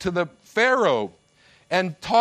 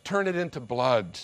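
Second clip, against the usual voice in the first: God's verdict; 7 semitones lower than usual. Acted. God answering proud Pharaoh, low grave verdict. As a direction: speak it down low like final judgment. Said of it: "God says".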